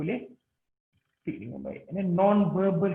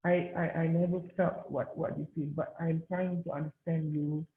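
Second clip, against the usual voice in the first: softer, hesitant and sincere; gentle empathy; 5 dB quieter than usual. Shown as a demonstration. Doctor comforting a grieving mother, softly sincere. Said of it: "But what you can say is".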